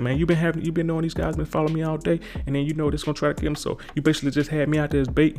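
high-pitched exasperated retelling; mock indignant. Jake confronts friend over betrayal.

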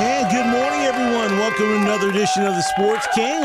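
high, loud, pumped-up hello; excited greeting. Real, not acted. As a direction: open the show bursting with energy. Host's big show opening.

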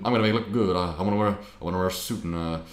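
lightly voiced impression of a famous singer; rock-and-roll singer impression. Guest voicing the singer planning his outfit, light singer impression. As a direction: loose mock-crooner musing. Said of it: "He was just like".

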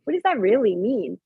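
sudden high squeak of confusion; baffled what. Retold or imitated. Recalling her reaction to the psychic, in high baffled surprise. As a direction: shoot up high, puzzled. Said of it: "And I'm like".

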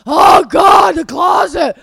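loud, high, hammed-up moaning; imitating a partner's huge complaint at full volume; mock wailing. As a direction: wail it like an overwhelmed whiner. Mocking partner's moaning over closet.

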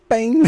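loud, high "pem" of a pot hitting; imitated bang. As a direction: punch out the crash as a sudden loud noise.

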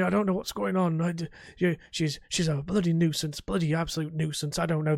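exasperated character complaint in an easier register; ex-husband Harold. Shown as a demonstration. Gamer tests his hounded ex-husband's new voice, exasperated grumble. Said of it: "That'll work, that'll work".

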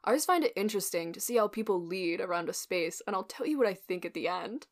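lightly voiced laid-back frat bro; frat guy voice. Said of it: "I'm using a frat guy voice for him".

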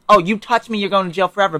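imitating a bully's threat; mock threat. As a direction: play the smug aggressor. Mocking an abuser's threat.

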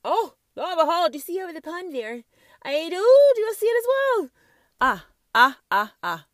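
mock British-style accent, high and loud; put-on accent. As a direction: ham up a foreign accent pointing at the pond. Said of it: "'cause I used an accent".

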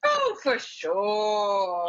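drawn-out, slow, grand "oh, for sure"; hammed-up agreement. Mister Silver grandly agreeing with the dealer, slow. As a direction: stretch it out like a pompous magnate.

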